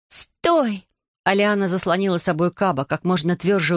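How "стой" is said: put-on high sharp cry of a young girl; girl's shout. Girl shouting at a dragon to stop. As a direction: throw out a high-pitched stop.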